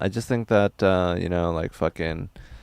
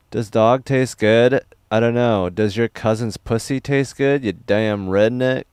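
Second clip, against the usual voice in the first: mock angry retort; 4 semitones higher, 6 dB louder than usual. Streamer snaps back at chat.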